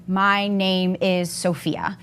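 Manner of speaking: slow, monotone robotic reading. Shown as a demonstration. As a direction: read it like a robot, word by word. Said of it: "I read it like a robot".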